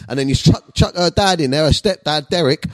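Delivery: ordinary delivery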